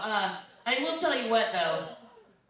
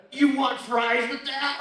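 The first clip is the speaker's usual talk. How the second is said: louder, slow, barely held-back anger; angry customer service; 4 semitones higher, 7 dB louder, slower than usual. Pretend. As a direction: ask it like you hate your job. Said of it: "I always sound like I'm angry".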